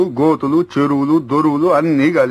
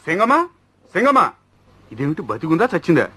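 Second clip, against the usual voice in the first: shocked dismay. Acted. Brother finds his sister bound and cries out in shock. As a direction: gasp in horror at the sight.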